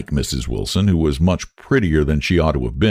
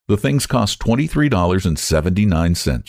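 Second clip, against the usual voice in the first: coolly. Acted. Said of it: "she said coolly".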